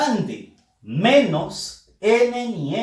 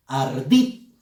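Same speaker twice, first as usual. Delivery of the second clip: "Ardit" pitched lower, weight on "dit"; stress on last syllable; 5 semitones lower than usual. Shown as a demonstration. Teacher repeating the example word, stress on "dit". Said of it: "Fuerza de voz en la sílaba dit".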